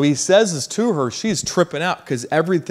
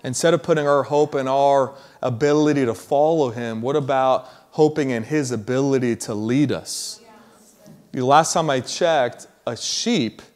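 louder, fervent sermon delivery that keeps building; rising preaching voice; 2 semitones higher, 4 dB louder than usual. Acted. Preacher urging his congregation to trust God's voice, fervent and loud. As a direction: preach it out with mounting conviction.

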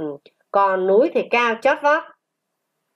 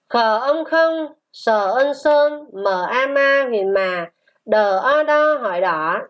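spelling drill; 3 semitones higher than usual. Shown as a demonstration. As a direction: spell it out syllable by syllable for pupils. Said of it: "Luyện đọc qua từ". (đánh vần chậm, ngân nga)

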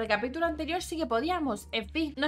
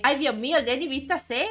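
mock outrage; 4 dB louder than usual. Scandalized at naked Sim.

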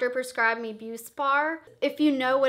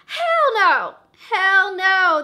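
higher, louder flat refusal; emphatic hell no; 5 semitones higher, 6 dB louder, slower than usual. Real, not acted. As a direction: shut the idea down hard. Emphatic denial to viewers.

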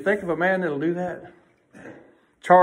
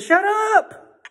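sharply raised, high retold command; harsh rebuke; 12 semitones higher than usual. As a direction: imitate a harsh rebuke with a jump in pitch. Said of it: "harshly. He said".

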